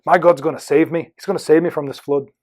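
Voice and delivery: mild attempted Irish accent. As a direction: insist with a touch of Irish. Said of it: "And the Irishman says".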